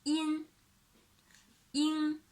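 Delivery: "in" drilled for copying; clear demo syllable. Shown as a demonstration. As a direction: model "in". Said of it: "and the next two".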